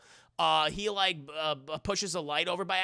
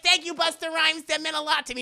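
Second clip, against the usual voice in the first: grateful high voice; 10 semitones higher, 5 dB louder than usual. Retold or imitated. Grateful Sarah.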